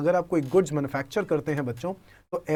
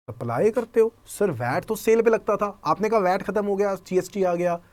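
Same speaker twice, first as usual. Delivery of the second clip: lightly voiced student, pitched up; student's objection; 3 semitones higher than usual.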